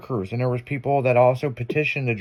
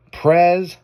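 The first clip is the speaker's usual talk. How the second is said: questioning call-out; 5 semitones higher, 6 dB louder than usual. Retold or imitated. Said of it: "Like that".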